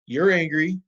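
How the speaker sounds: mock angry self-talk. Shown as a demonstration. Teacher showing an angry kid naming his feeling, mock angry. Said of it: "let's all pretend that we're Lucas".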